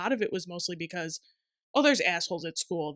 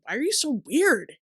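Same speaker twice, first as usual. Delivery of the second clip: high, louder mocking question; mocking Nate; 8 semitones higher, 5 dB louder than usual. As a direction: mimic a friend's teasing. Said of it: "Nate says it constantly".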